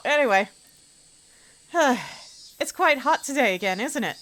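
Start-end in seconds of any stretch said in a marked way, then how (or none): 2.6-4.2 put-on slipping English accent. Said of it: "English accent".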